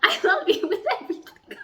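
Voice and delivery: laughing through a love declaration; giddy, laughing fan proclamation; giggly declaration. Real, not acted. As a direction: announce it while giggling. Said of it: "announce that".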